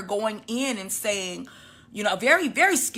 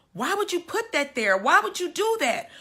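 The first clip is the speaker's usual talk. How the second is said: distraught; 9 semitones higher than usual. Retold or imitated. Distraught question to the nurse.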